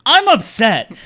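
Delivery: high, loud hammed-up complaint; obnoxious outburst. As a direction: blurt it out for the whole room, mock upset. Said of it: "I was being just really obnoxious".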